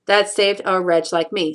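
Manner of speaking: measured, syllable by syllable; counting out syllables. Shown as a demonstration. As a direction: tick off each syllable evenly. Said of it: "count out the syllables".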